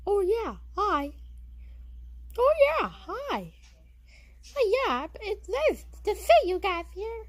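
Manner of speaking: a lightly squeaky Jerry the mouse greeting; Mickey Mouse-like voice. Pretend. Jerry the mouse greets the crowd, lightly squeaky. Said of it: "you kinda sound like Mickey Mouse".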